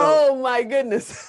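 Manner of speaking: impressed, slow exclamation; real amazement. Real, not acted. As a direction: let the disbelief stretch the words. Host reacts to son's album.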